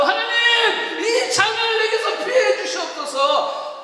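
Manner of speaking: loud, high pleading prayer; Jesus. Acted. Jesus praying in Gethsemane, loud high plea. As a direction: cry out the prayer, stretching the plea. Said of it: "그가 겟세마네에서 기도하기 시작한 거예요".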